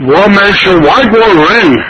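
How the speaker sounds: a high, haughty foreigner's voice; foreign invader voice. Acted. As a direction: puff up like a swaggering foreign soldier. Foreigner answers the grandfather.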